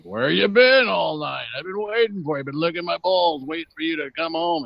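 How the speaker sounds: talking dog. Acted. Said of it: "my dog was like".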